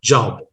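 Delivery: "Job" as Indians normally say it; a plain Indian-English "Job"; Indian pronunciation. Shown as a demonstration. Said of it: "Indians pronounce normally this word as job".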